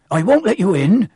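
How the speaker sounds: breathless and firm through the window; puffed. Acted. Hagrid to the children at his window, puffing. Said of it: "he puffed".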